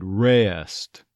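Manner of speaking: "Rest" as "REH-uhst"; stressed off-glide. Shown as a demonstration. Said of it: "you might get that off glide".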